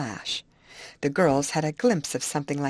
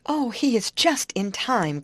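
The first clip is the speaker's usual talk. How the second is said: lightly raised, eager exclamation; slightly heightened storybook cry; 5 semitones higher than usual. Acted. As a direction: cry out with mild excitement. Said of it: "cried Molly".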